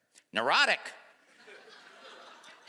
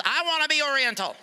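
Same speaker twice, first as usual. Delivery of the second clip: blurted too loud; 3 semitones higher than usual. Real, not acted. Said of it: "Sorry I said it so loud".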